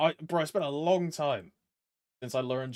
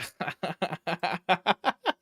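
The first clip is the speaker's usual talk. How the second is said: laughing; 2 semitones higher than usual. Real, not acted. Streamer amused by their own German accent attempt, laughing.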